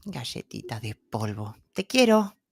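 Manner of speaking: soft, sweet voice speaking Spanish. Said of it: "in his Horatio voice ... can he sweetly say".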